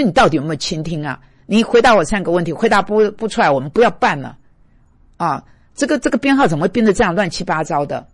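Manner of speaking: a touch of mock scolding; retold angry complaint. Preacher imitating his own rant at a coworker, mild mock anger. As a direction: rattle off an irritated telling-off. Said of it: "我当下就埋怨出来".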